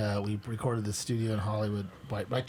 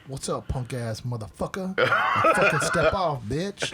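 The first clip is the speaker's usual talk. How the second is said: tough-guy Arthur Lee; 2 semitones higher, 4 dB louder, slower than usual. Retold or imitated. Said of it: "he's like".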